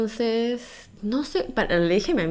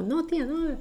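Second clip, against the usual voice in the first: mock male refusal; 8 semitones higher, 3 dB quieter, slower than usual. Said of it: "his refusal voiced".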